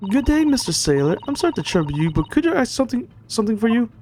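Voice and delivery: high, politely timid request; polite stowaway. Acted. Voices polite stowaway addressing the sailor.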